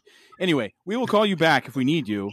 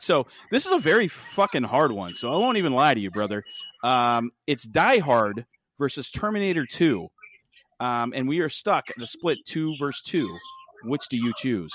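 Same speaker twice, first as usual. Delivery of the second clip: upbeat radio host voice; 3 dB louder than usual. Acted. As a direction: talk like a DJ on air. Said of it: "how I turned on my radio voice for Patrick".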